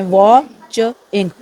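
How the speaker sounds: वॉचिंग stretched slowly, वॉ and चिंग pulled apart; syllable drawn out. Shown as a demonstration. Teacher showing students the syllables of वॉचिंग, slow and stretched. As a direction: draw out वॉचिंग so each syllable is heard. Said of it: "टू है इसके".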